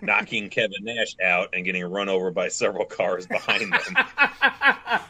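words breaking into laughter; laughing while telling. Real, not acted. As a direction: laugh through the end. Laughing through the plot idea.

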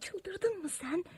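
slow furious whisper; angry whisper. Acted. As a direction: whisper your fury. Hissing at sister by window.

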